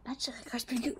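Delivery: low, very soft admission; hushed low aside; private aside. Acted. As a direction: murmur it to yourself.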